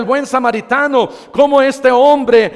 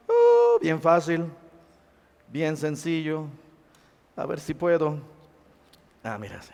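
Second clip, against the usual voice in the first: soft; 8 semitones lower, 12 dB quieter than usual. Acted. Jesus' easy answer, soft.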